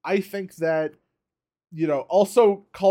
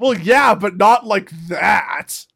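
shouting; 5 dB louder, slower than usual. Real, not acted. Arguing about girl's height.

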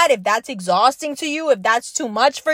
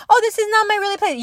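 mock bystander; 6 semitones higher, much faster than usual. Mocking a bystander's excuses.

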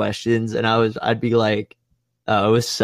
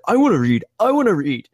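high, pleading eagerness; eager kid; 8 semitones higher, 4 dB louder than usual. Retold or imitated. Jimmy begging the teacher to read, high and eager. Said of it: "he was like".

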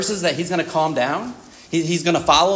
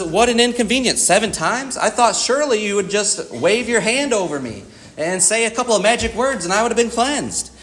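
huffy, raised pitch, scornful; arrogant Naaman; 4 semitones higher than usual. Retold or imitated. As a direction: play him put out and superior. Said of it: "the arrogance of Naaman".

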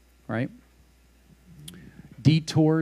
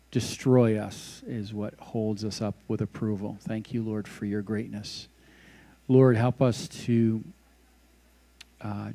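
closing prayer. Acted.

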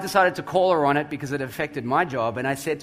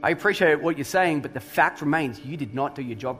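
very calm; 4 semitones lower than usual. Retold or imitated. Pastor retelling calm reply to angry coworker, calm and even. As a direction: stay calm and level while she rages. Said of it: "I very calmly said to her".

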